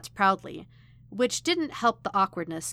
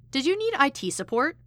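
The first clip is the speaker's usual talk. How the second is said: chirpy offer of help, pitched high; eager helper's lilting question; cheerful; 7 semitones higher, 4 dB louder than usual. A narrator's reading. Ernst offering IT support to a visitor, cheerfully. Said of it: "he said cheerfully".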